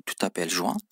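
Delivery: Tu t'appelles Juan. with the pitch going up on Juan; rising question tune. Shown as a demonstration. Teacher repeating the question with a rise. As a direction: ask it with the rise alone. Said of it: "Vurguyla soruyoruz bunu".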